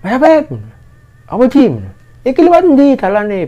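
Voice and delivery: high-pitched holler for directions; retold shout. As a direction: call out to friends beyond the boulder. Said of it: "terus dia teriak". (menirukan teriakan bertanya jalan)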